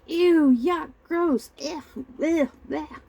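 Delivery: put-on high-pitched kid grossed out; disgusted. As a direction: spit out each word at a foul taste. Child disgusted by taste of liqueur.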